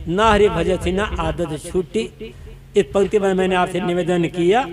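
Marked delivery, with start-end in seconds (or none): 0.1-2.3 Kabir's line slowed right down and lowered, every word weighed; a slow, reverent reading of the couplet; slow solemn verse. Shown as a demonstration. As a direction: recite it slowly as a solemn memory verse. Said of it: "केवल एक पंक्ति कबीर साहब की याद करें".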